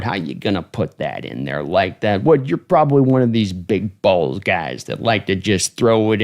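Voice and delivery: slow, gravel-free coach needling a quarterback; a hint of Gruden ribbing a player; Gruden impression. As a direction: tease the rookie like a TV coach. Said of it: "I can't do a good Gruden impression".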